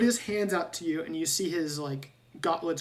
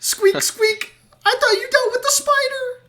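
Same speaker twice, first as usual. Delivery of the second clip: squeaky rubber duck; 10 dB louder than usual. Acted. GM voices rat character.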